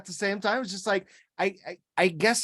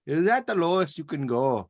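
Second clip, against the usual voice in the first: a hint of Hutterite accent; lightly German-type accent; 3 semitones lower than usual. Salesman echoing Hutterite customers on price, light Hutterite accent. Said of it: "German type of accent that they have in there".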